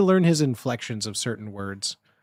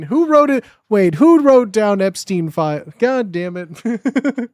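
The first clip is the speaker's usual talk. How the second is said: higher, louder exasperated yell; exasperated outburst; 5 semitones higher, 8 dB louder, slower than usual. Real, not acted. Streamer shocked by what someone wrote down, shouting. Reacting to the game prompt.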